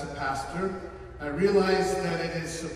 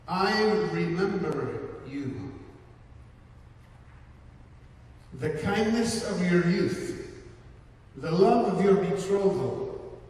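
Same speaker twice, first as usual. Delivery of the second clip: scripture reading. Acted. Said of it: "It says this".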